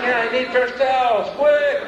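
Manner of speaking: flustered demand. Retold or imitated. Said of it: "caught, flustered".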